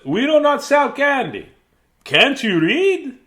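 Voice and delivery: high, loud shopkeeper voice; mock-outraged storekeeper; gruff store man. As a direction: play the grumpy candy man, loud and high. Shop man voiced in read-aloud.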